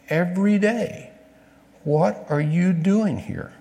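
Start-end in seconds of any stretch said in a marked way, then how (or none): 1.8-3.5 slow questioning. Shown as a demonstration. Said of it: "God asks us that same question".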